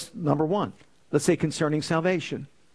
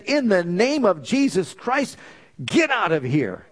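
raised, slowed command at a demon; commanding rebuke; 4 semitones higher than usual. Retold or imitated. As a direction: order it out with authority, drawn out. Rebuking demon in retold vision.

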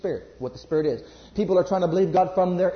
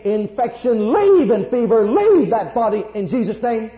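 louder, firm rebuke of the fever; commanding rebuke; 3 semitones higher, 5 dB louder than usual. Acted. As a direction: cast it out with authority. Commanding sickness to leave child.

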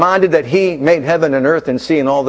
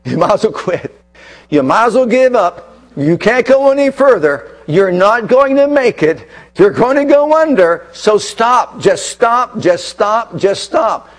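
body urging surrender; 2 semitones higher than usual. Acted. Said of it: "everything in you, in your body that is, says".

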